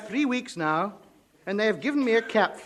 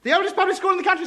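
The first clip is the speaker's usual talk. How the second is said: quick eager recital for the headmaster; parroting answer; 9 semitones higher, much faster than usual. Acted. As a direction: rattle it back fast and high. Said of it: "Speak up".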